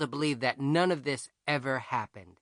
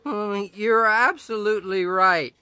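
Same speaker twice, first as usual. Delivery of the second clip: serious Grover; 4 semitones higher, 6 dB louder than usual. A narrator's reading. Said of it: "He looked at me real serious and said".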